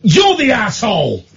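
pointed, slow accusation; accusing quote. Retold or imitated. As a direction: jab the finger with the words. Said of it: "one said".

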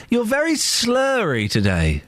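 "slurry" stretched out slowly; slow, emphatic repeat. Real, not acted. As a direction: repeat it slowly for someone who missed it, drawing out "slurry". Repeats it after "Sorry?.

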